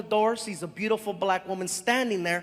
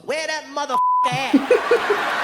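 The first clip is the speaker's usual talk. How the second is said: eager demand; 5 semitones higher, 6 dB louder than usual. Retold or imitated. Woman accepts fifty bucks.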